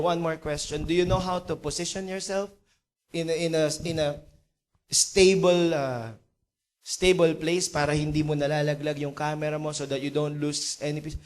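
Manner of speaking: low, hesitant questioning; subdued, halting acted businessman; sad, low expectations. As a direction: check carefully, with little hope. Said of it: "malungkot na malungkot, dahan-dahan, without much expectation".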